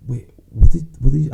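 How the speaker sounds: high, loud baffled wait; confused listener. Retold or imitated. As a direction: play the lost listener.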